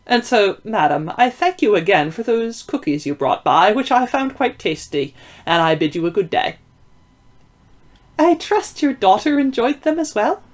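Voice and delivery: high put-on falsetto disguise. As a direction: speak up in a feigned falsetto. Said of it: "the falsetto vanished".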